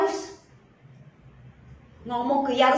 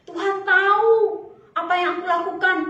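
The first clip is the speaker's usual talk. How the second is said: caught out; 5 semitones higher, 4 dB louder than usual. Acted. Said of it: "langsung berpikir".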